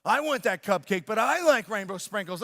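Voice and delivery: lightly imitated child's protest; mild mock upset, pressing the demand. Boy refused his sister's cupcake, mildly upset protest. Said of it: "so he got upset".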